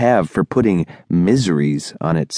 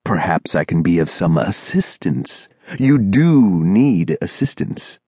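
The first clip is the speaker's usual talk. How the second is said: commanding singsong. Acted. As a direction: offer help as a command. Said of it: "He said it like a command".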